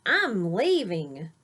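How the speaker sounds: mock shout. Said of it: "a big monster shouted".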